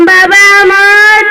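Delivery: slow drawn-out call. Acted. Old mother calling her son from outside, slow and drawn out. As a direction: stretch the name out slowly, calling across the house.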